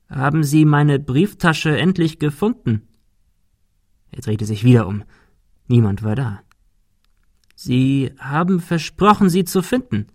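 a dead butler calling for his lost wallet; hollow, pleading ghost of a butler; ghostly butler. Acted. Dead butler voices his plea.

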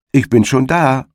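high triumphant call across the field. A narrator's reading. Hedgehog calls to the startled hare, high and smug. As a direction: sing it out smugly from the finish.

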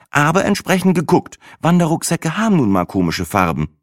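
höher und lauter, leicht unschuldig; Sinas Stimme. A narrator's reading. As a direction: spiel die arglose Freundin Sina. Sina in the story. (Sina antwortet ihrem Freund ganz unschuldig)

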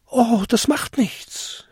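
high, slow, carefree reply; little goblin calling out. A narrator's reading. Goblin dismissing old lady's warning, carefree call. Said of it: "rief der kleinste Winterkobold".

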